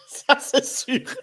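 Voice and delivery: high, slow laugh through the words. Real, not acted. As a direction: laugh it off nervously. Nervous laugh after admitting fear.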